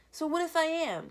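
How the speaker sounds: loud, high defensive bark. A narrator's reading. Kenny snapping at Vic, barked. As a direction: throw it back at him hard. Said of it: "Kenny barks".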